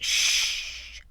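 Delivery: sharp hush; quick hushing sound; hushing shh. A narrator's reading. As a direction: silence him quickly. Mother hushing child.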